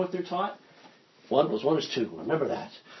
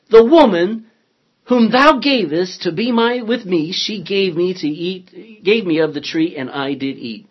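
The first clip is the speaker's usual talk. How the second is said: raised, emphatic Bible reading; loud scripture reading; 3 semitones higher, 9 dB louder than usual. Acted. Teacher reads the man blaming the woman, loud and emphatic. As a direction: declaim Adam's excuse.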